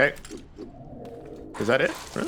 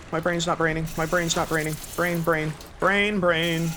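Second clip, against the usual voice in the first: frazzled panic; 7 semitones higher than usual. Real, not acted. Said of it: "my brain is not braining".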